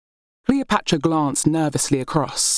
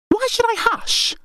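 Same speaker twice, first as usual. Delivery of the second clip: high, indignant demand. A narrator's reading. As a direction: fling the question back at her. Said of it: "Berenice demanded".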